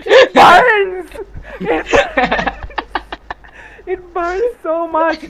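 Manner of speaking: high, loud wail of pain; mock pained cry. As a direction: cry out like it stings badly. Retold pain, crying out.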